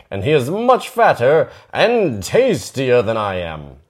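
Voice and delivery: smiling goat. Acted. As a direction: coax the troll with a secret. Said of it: "The second goat smiled".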